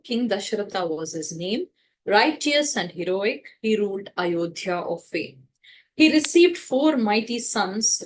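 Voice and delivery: measured verse read aloud, gently rhythmic; lightly sung-out verse reading; poem recitation. Acted. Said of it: "Hanuman recites like this".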